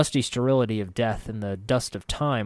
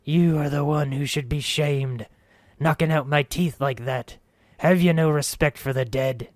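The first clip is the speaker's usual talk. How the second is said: put-on higher ghostly voice with silly accent; ridiculous accent, high; 4 semitones higher, 4 dB louder than usual. Narrator throwing his voice as a ghost, high ridiculous accent. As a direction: play a silly ghost from a corpse. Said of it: "Kicking my voice up an octave and tossing in a ridiculous accent".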